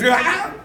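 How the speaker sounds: short high yelp, acted; mock cry of pain. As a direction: yelp as if just smacked. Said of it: "he gives a smack".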